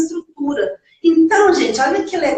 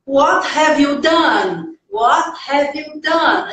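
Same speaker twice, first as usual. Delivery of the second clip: 1 slow model sentence; much slower than usual. Shown as a demonstration. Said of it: "olha só".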